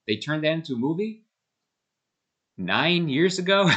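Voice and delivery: can't believe it, slowing down; incredulous. Real, not acted. Disbelief book became a movie.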